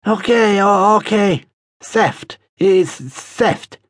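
high-pitched, stammering surrender; frightened thief. Acted. Thief threatened by the man pinning him.

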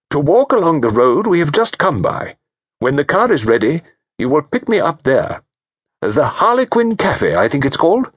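clear and decisive. Acted. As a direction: announce the plan with firm resolve. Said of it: "His voice was clear and decisive".

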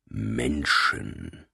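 low, slow drawn-out growl. A narrator's reading. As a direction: growl the word out slowly. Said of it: "knurrte er gedehnt".

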